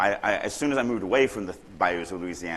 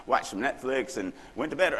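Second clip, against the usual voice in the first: higher, chirpy second voice answering; mock reply in dull small talk; 5 semitones higher than usual. Shown as a demonstration. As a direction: play the other guy, bland and cheerful. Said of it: "It can't just be".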